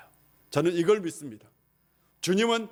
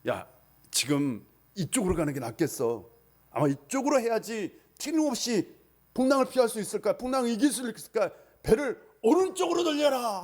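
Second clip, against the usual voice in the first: fisherman's order; 3 semitones higher than usual. Acted. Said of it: "한다든지".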